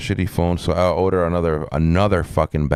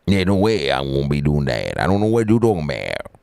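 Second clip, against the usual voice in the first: mock Cajun accent; 3 semitones lower, faster than usual. Streamer trying an accent on viewers, mock Cajun. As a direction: rush the words in a put-on Cajun. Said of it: "get a Kajuna accent".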